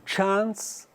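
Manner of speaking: Chance with a broad British a, like "chahns". Shown as a demonstration. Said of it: "britânico".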